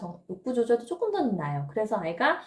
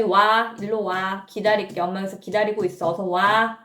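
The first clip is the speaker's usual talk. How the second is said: mock calling across the house, louder; 2 semitones lower, 5 dB louder than usual. Parent calling a stubborn child to the bathroom, loud call. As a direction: call the kid over, insistent.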